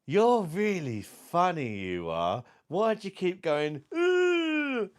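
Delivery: put-on high, slow, innocent child voice; little girl voice. Daughter Layla asking man in wheelchair, childlike high voice. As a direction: ask it like a curious little girl.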